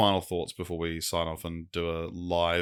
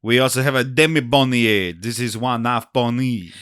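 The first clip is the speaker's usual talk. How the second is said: lightly done French waiter; mild French waiter accent; thick French accent; 3 semitones higher, 4 dB louder than usual. Acted. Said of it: "The waiter has a very thick French accent".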